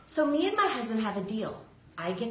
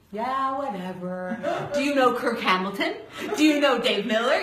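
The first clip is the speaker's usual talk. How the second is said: dismissive. Retold or imitated. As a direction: wave it off like a joke. Brushing off officer as April Fools.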